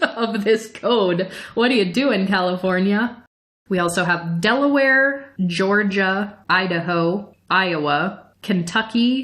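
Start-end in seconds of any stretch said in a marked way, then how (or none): 0.0-3.2 laughing while speaking, faster. Showing listeners the first sentence of a legal code, laughing.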